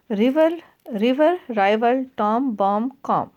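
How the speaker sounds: slow, deliberate recitation; measured classroom poem reading. Acted. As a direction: read the verse line slowly for the class. Reading the poem line aloud.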